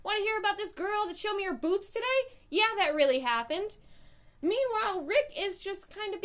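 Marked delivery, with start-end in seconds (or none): 0.0-3.8 lightly voiced bro-ish teen, a bit higher; a hint of a cocky teenage boy bragging; mock Carl. Teen Carl bragging to Negan in jail, light bro voice. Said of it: "He's like".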